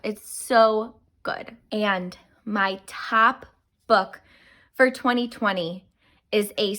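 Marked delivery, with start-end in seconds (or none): 0.0-1.6 long slow gushing It's so good; slow drawn-out gush. Real, not acted. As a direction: stretch each word of It's so good slowly. Same phrase repeated, drawn out.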